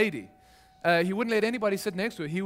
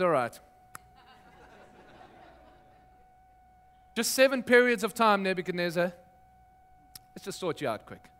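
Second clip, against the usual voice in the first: calm God. Retold or imitated. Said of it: "It's as calm as".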